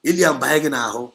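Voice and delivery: a stern loud warning to listeners. Real, not acted. Warning repeated, second time louder.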